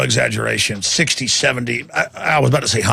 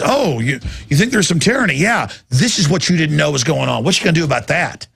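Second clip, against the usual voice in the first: taunting; 3 semitones higher than usual. Retold or imitated. System voiced taunting.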